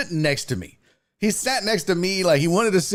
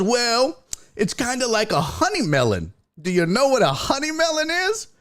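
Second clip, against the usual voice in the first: patient grandpa voice; 8 semitones higher than usual. Retold or imitated.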